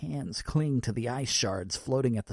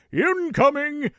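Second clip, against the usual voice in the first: high, slow, loud cry of warning; loud announcement; 8 dB louder, slower than usual. Acted. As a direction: call it out like a cheery Santa. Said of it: "the round man announces it".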